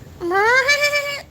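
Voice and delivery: very high, attempted goat bleat. Streamer retrying the goat impression for viewers, high bleat. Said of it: "I try to do the goat impression".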